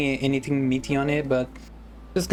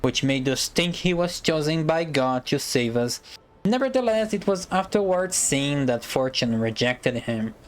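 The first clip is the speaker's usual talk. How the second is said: speech voice. Acted. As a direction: read it like an orator addressing a prince. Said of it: "let me use a better voice. Prepare for a speech".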